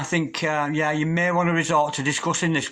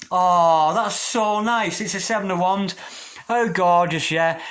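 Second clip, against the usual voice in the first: high, bright-eyed delight, slowed on nice; a sudden real gasp of joy at the card; 4 semitones higher, 3 dB louder, slower than usual. Real, not acted. Reader turns a card she loves, higher delighted exclamation.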